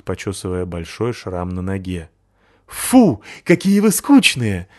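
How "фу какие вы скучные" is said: high, loud, disappointed yelp; barked. Acted. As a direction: bark it out, bored with them. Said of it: "пролаял Маламут". (разочарованный лай)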